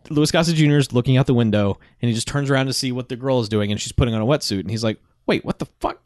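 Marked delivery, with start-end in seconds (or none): 5.3-6.0 high-pitched, baffled mock reaction; taken aback. Co-host retells a man spotting the wetsuit, taken aback. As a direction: quote a startled double take. Acts startled man in retold scene.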